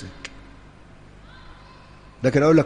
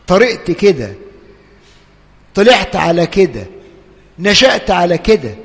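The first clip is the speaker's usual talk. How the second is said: loud, higher pleading of a man who has given up; despairing sinner; 5 semitones higher, 4 dB louder than usual. Retold or imitated. Preacher voicing a despairing believer, loud and pleading. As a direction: cry out as someone who can't fight himself anymore. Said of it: "ما تقولش".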